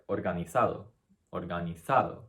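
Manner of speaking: organizado stressed on ZA, the second-to-last syllable; penultimate stress. Shown as a demonstration. Teacher showing the vowel-ending rule, organizado stressed on ZA. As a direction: lean on ZA in organizado, Spanish th for the z. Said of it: "We emphasize the th".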